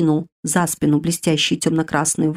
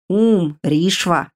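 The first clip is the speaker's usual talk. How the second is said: reverent; much slower than usual. Acted. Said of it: "благоговейно протянул".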